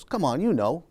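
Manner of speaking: lightly pushy mock coaxing; retold insistence. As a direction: press for an answer in an imitated teacher voice. Retold teacher pressing a child.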